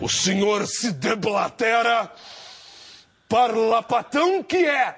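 slow, pompous politician voice; Collor impression. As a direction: declaim slowly and pompously. Imitating Collor's speech.

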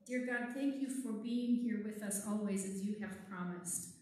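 put-on gentle, steady children's prayer. Leads a closing prayer.

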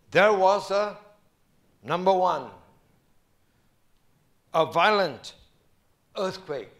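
loud, driving emphasis on violent; emphatic preaching. Acted. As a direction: proclaim the violent earthquake loudly.

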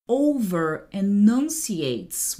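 OVER-ENUNCIATES stretched out, syllable by syllable; over-enunciated. Retold or imitated. Host relaying an actress's tip on accents, over-enunciated. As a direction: draw out over-enunciates with crisp, separate syllables.

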